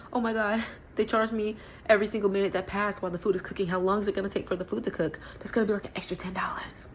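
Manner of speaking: fast, worried, fading to a whisper; panicked rush. Retold or imitated. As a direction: spiral into money panic. Panicking about Uber charges.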